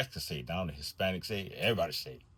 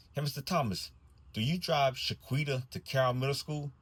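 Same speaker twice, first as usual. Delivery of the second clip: put-on child voice; 6 semitones higher than usual. First grader voiced in story.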